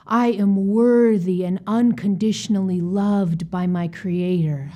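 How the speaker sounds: each word given weight, slowing toward the end; slow, intentional affirmation. Shown as a demonstration. Coach demonstrating a self-love affirmation, slow and deliberate. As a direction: state it slowly and mean it. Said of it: "affirm slowly and with intention".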